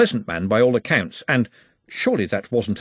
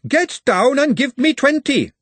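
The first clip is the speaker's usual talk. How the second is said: high, loud, slow drill-sergeant yell; barked drill order; 6 dB louder, slower than usual. A narrator's reading. A wizard suddenly orders gentlemen down, drawn-out loud yell. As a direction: bellow it like a drill instructor.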